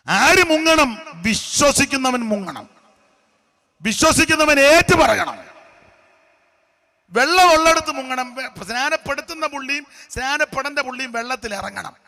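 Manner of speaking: emphatic preaching. Acted. Preacher insisting on baptism by immersion, forceful. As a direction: drive the teaching home to the church.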